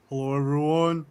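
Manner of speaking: imitated stream-opening greeting; lightly put-on signature hello; Great Babsby. Mimicking how a streamer opens every stream, playful greeting. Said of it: "the way she starts in every stream".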